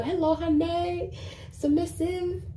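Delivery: high, slow, submissive put-on Asian accent; badly faked Asian accent, drawn out and high; mock Asian accent. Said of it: "how to do the, the Asian accent".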